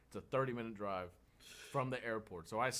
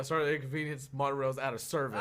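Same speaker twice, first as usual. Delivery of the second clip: laughing; 4 dB louder than usual. Retold or imitated. Reading the sign, laughing.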